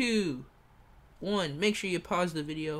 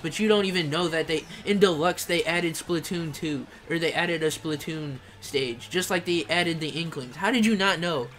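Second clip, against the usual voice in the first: louder, exasperated scolding; mock outrage; 4 dB louder than usual. Real, not acted. Streamer scolding a fan over Mario Kart, exasperated. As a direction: lay into him in disbelief. Ranting at a viewer's ignorance.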